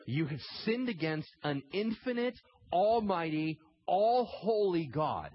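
"almighty" and "all-holy God" hit high and loud; slow right down and punch "all-holy God"; emphatic preaching. Real, not acted. Preacher confronting listeners about their sin, emphatic. Preacher hammering God's greatness.

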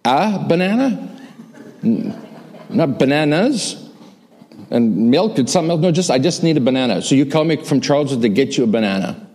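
mock outrage at a banana errand; incredulous. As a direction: grandson teasing grandma in disbelief. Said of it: "his retold reply to grandma".

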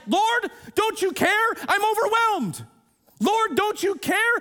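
loud, high and slow, exasperated; overwhelmed complaint. Retold or imitated. A busy believer complaining to Jesus, exasperated. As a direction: plead like you're at the end of your rope. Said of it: "in the moments of being overwhelmed".

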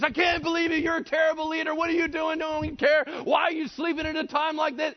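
very high, loud mock-outraged yelling; shouting and screaming. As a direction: scream accusations in the leader's face. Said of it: "they're all shouting and screaming".

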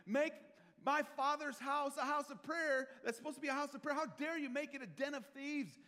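furious shout of indignation, high and loud. Retold or imitated. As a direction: roar at them in righteous anger. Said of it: "He's angry".

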